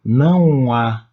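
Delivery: "não há" slowly blended into one sound; vowels run together. Shown as a demonstration. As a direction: glide from "não" straight into "há", drawn out. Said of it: "acabam tendo uma sonoridade conjunta".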